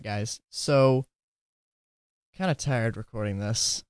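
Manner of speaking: normal talking voice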